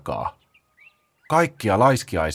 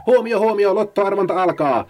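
high, loud blare through a megaphone; megaphone bellow; 12 semitones higher, 4 dB louder than usual. Acted. Paula bellows into the megaphone at the sloths. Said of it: "otti kovaäänisen megafoniin ja kailotti siihen".

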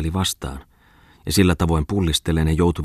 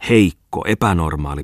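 needling jab. Acted. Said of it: "pisteli yhä oiva Tommola".

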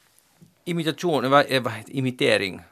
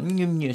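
put-on baby babbling sound; 5 semitones higher, 4 dB quieter than usual. Shown as a demonstration. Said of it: "om den här bebisen gör något".

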